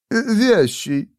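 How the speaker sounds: high, small-voiced suggestion; timid poet. A narrator's reading. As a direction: offer the word tentatively, high. Court poet offers a rhyme.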